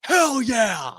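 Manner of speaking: high, falling victory yell; hyped fan shout. Real, not acted. Fan fired up by the draft pick, hyped shout. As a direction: shout it out in celebration. Fan celebrating after his imagined pep talk.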